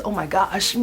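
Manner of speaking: hammed-up sobbing with a high wail; mock bawling; fake crying. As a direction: pretend to burst into tears. Pretends to cry over bigger prize.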